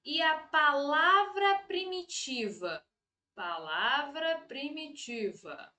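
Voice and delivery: measured board-writing pace; slow dictation. Real, not acted. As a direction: dictate it slowly while writing. Dictates rule while writing it.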